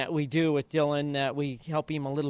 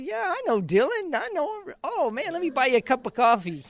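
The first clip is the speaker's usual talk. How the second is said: high, hammed-up starstruck voice; playful exaggerated excitement; mock eager fan; 10 semitones higher, 4 dB louder than usual. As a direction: gush like a fan suddenly impressed. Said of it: "I said".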